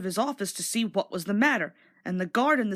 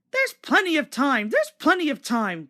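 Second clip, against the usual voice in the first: grumbling; 5 semitones higher, 3 dB louder than usual. Acted. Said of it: "grumbled the coaches".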